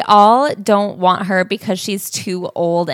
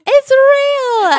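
much higher and louder, wide-eyed shopper; mock amazed; 7 dB louder than usual. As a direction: play the stunned passer-by. Co-host joins the shoppers' gasp.

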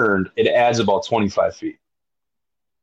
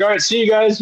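much higher mock farewell; resigned farewell; 12 semitones higher than usual. Rower joking to his crew, high mock goodbye. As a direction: wave goodbye as you're pulled off. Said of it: "I'm like".

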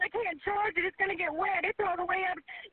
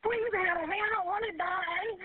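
terrified pleading; slower than usual. Real, not acted. Caller trapped in rising water.

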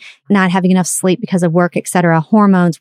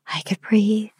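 breathy whisper of relief; 3 semitones higher, 8 dB quieter, slower than usual. Retold or imitated. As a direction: whisper it like a weight lifted. Relief after cleaning.

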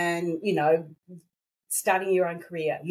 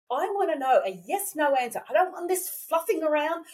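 retold frustration; 5 semitones higher than usual. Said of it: "I'm getting angry".

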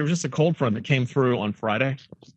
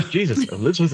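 ordinary talk, nothing marked

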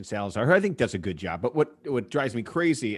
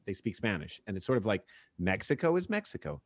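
usual speaking voice

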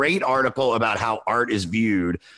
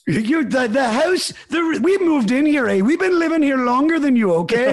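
put-on Canadian accent; 14 semitones higher, 4 dB louder than usual. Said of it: "my Canadian accent's not very good".

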